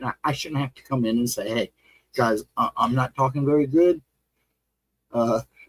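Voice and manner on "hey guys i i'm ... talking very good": ordinary delivery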